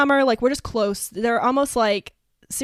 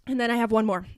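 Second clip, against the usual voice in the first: breathless, short of air; out of breath. Real, not acted. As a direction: speak while winded. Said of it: "I'm, like, out of breath".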